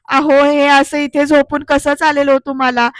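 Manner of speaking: slow, pleading wife, barely teary; a hint of a crying wife begging her husband; mild mock tearful plea. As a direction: beg him to wake, slow and a little choked. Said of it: "असं म्हणत आई रडतायत".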